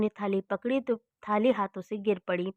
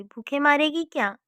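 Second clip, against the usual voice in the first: raised, higher complaint shouted at the daughter-in-law; mother-in-law shouting from her room that she is starving; hungry yell; 5 semitones higher, 4 dB louder than usual. Acted. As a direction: call out higher and louder, cross with hunger. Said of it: "सास फिर चिल्लाई".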